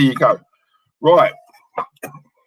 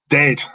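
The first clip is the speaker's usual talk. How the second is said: "Dead." as an emphatic standalone word; stress on "Dead". Real, not acted. Host condemning the manager to viewers, stressing "Dead". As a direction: set "Dead." apart and land on it firmly. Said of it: "I emphasize the word dead".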